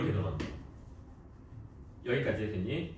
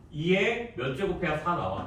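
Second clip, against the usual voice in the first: slow model reading, "이의" pitched up; 4 semitones higher, slower than usual. Shown as a demonstration. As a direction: read "이의 몇 제곱해야 사 나와?" slowly as a question. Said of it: "이렇게 읽는 거야". (천천히 질문하듯 읽는 시범)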